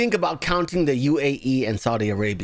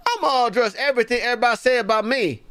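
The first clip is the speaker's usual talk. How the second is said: higher-pitched, put-on Black accent, acting flustered; mock Black accent; 7 semitones higher, faster than usual. Host making fun of a flustered candidate, mock Black accent. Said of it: "I'm using a black accent".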